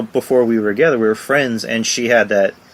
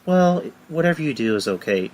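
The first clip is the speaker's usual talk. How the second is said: higher-pitched imitated pushover; meekly agreeable; 6 semitones higher than usual. Imagined partner who never challenges him, meekly agreeable. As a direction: mimic someone who just goes along.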